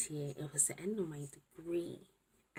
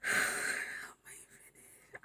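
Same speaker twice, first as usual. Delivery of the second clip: whisper; much slower than usual. Real, not acted. Whispered disbelief late at night.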